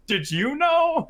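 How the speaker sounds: high, slow suspicious question; mock-accusing mother; accusing mom. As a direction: drag it out like a mom interrogating. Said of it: "looked at my sister and goes".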